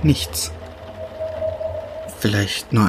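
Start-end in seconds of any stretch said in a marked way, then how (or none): 0.0-0.5 whispered. Acted. Alone, listening in the dark.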